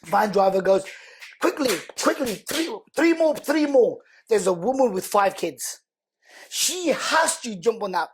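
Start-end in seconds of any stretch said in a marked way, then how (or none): 1.4-4.0 higher, urgent call hurrying people aboard; hurried calling out. Retold or imitated. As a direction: shout the count like a driver rushing everyone. Van driver hurrying people on.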